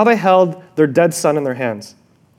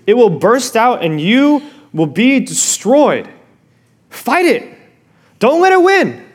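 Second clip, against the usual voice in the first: urgent warning; 2 semitones higher than usual. Retold or imitated. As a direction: warn Cain with growing urgency. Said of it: "And he continues".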